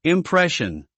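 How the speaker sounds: "Impression" said slowly and clearly, im-PRESH-un, stress on the second syllable, falling tune; slow clear dictionary pronunciation. Shown as a demonstration. Dictionary word read alone.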